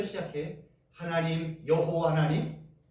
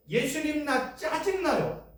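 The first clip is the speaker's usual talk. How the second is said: prayerful complaint; 7 semitones higher, slower than usual. Shown as a demonstration. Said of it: "이게 기도라니까요".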